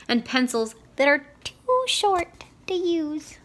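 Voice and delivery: high, slow wail of sorrow; crying. Acted. Owl sobbing into his kettle, slow high wail. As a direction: pitch it up and wail it slowly. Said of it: "he cried".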